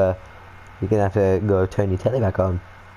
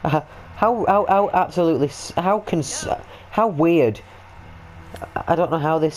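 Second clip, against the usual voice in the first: baffled; 8 semitones higher than usual. Real, not acted. Baffled by overflowing sink.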